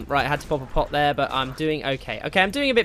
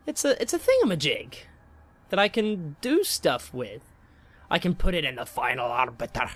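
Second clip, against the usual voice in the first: put-on Scottish accent. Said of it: "I'm gonna have to say that in a Scottish accent".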